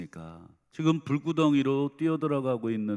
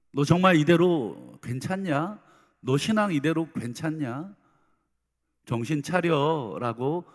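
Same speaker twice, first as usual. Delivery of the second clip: stern scolding; 3 semitones higher, 4 dB louder than usual. Pretend. God scolding the believer.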